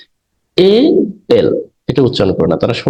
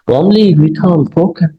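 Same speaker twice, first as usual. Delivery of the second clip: slow reading; 7 semitones higher, much slower than usual. Shown as a demonstration. Teacher reads English example aloud.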